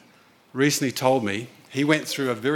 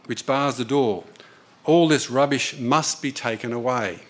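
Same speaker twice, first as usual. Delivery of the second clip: solemn read quotation. Acted. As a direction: read the passage with weight, as scripture. Reads Ellen White quotation.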